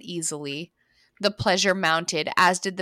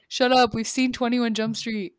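dismissive retort; 4 semitones higher than usual. Retold or imitated. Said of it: "It's like".

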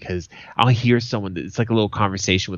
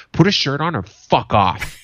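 retold irritated order, slightly raised; mock fed-up outburst; aggravated order; 4 semitones higher, 4 dB louder than usual. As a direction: imitate an aggravated worker, a little louder. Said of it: "So he's already aggravated".

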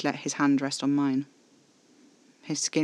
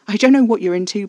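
higher, much louder indignant retort; scoffing; 7 semitones higher, 10 dB louder than usual. A narrator's reading. Narrator refusing to belong to Caspar, indignant scoff. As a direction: push back loudly and scornfully. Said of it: "I scoffed".

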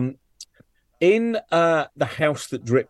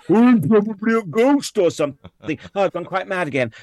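high, airy vintage film heroine; old thriller heroine; 8 semitones higher, 3 dB louder than usual. Retold or imitated. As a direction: trill it like a dotty seventies heroine. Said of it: "nearly all of them are the same story".

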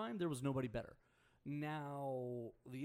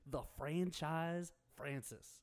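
announcer voice; 2 semitones higher, much slower than usual. Pretend. Hyping a player nickname.

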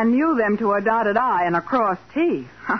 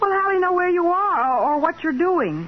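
worried; 7 semitones higher than usual. Acted. Patsy frightened for Nick.

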